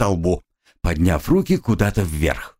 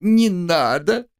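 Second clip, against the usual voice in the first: high, slow little squeak of no; squeaked plea; 9 semitones higher, slower than usual. Acted. Katya squeaking at the advancing soldier. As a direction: squeak it out in fright. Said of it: "пискнула Катя".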